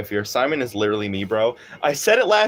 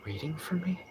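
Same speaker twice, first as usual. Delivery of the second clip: confused and puzzled; 3 semitones higher, 13 dB quieter than usual. Shown as a demonstration. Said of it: "gotta sound really confused and puzzled".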